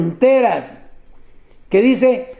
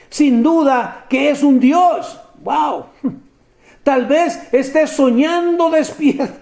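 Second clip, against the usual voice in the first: mocking sarcasm; 3 semitones higher than usual. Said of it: "se mofaba".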